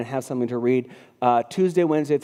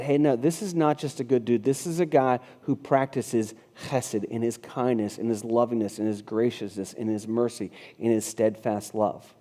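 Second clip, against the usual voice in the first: earnest reverence; 3 semitones lower, 4 dB quieter than usual. Retold or imitated. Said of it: "it said".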